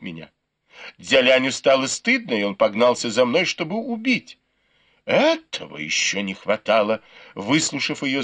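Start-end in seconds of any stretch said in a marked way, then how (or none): none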